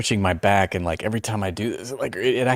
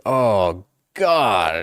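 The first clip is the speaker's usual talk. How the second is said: re-enacted pained groan. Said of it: "I'll be like".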